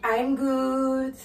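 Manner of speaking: I'm good slow, stretched on good; drawn-out I'm good. Shown as a demonstration. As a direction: stretch out the good, not dry. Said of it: "c'est pas sec". (I'm good lent, allongé sur good)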